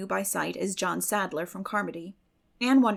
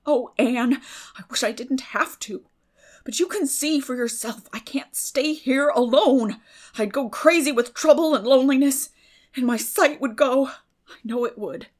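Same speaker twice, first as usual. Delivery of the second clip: distressed lament; 5 semitones higher, 9 dB louder than usual. A narrator's reading. Marilla distressed.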